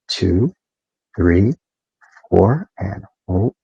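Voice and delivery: slow, even counting with long holds; guided breathing count. Acted. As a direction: count the breaths out calmly for the group. Leads a square breathing count.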